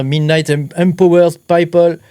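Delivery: English read with a French accent; halting English in a strong French accent; Franglais. Real, not acted. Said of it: "je te le dis en français anglais". (anglais à l'accent français, hésitant)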